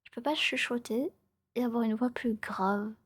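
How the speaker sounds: hushed storyteller's whisper. Real, not acted. Streamer explaining her odd voice to viewers, whispering. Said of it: "là, je chuchote".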